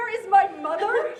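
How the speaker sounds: mock her reply with a laugh; a teasing, laughing parrot of her words; mocking echo. Nurse mimics Juliet's echo.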